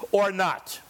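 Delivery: whispered, slowed ending. Real, not acted. Preacher challenging Christians to join history, whispered. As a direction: drop to an urgent whisper. Sermon climax, choice to act.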